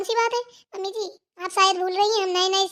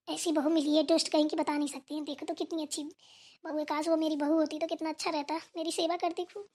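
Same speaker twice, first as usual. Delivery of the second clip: softer, lower grumbling under the breath; muttered aside; 4 semitones lower, 6 dB quieter than usual. Acted. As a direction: grumble to yourself so no one hears. Mother-in-law mutters to herself. (बहू से छिपकर धीमे धीमे बड़बड़ाती सास)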